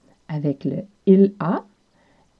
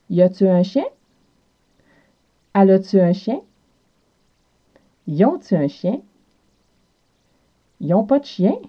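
Quebec French accent. Shown as a demonstration. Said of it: "on utilise la particule tu".

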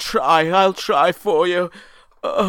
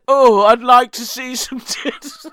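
laughing; 3 semitones higher, 4 dB louder than usual. Retold or imitated. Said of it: "And I said".

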